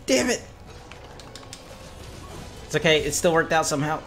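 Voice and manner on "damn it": high, loud exasperated cry; frustrated outburst. Real, not acted. Gamer missing the button mid-fight, high loud frustrated yelling. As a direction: yell at your own mistake.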